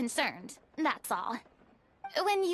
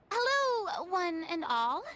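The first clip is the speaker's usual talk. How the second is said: theatrical greeting; 2 semitones higher, slower than usual. Acted. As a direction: make a grand stage entrance. Grand entrance after clearing throat.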